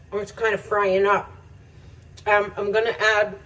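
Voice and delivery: talking through a mouthful; words around a bite of food; mouth full. Real, not acted. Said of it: "Quit talking with your mouth full".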